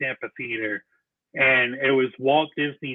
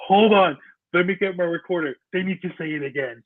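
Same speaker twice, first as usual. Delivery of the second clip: higher, hurried mock scramble; retold flustered urgency; 5 semitones higher, faster than usual. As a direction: act out a rushed bid to catch it on tape.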